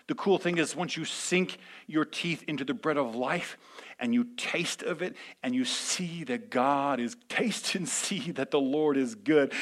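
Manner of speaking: intimate whispered aside. Real, not acted. Pastor sharing the secret with listeners, whispered. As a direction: lean in and whisper it.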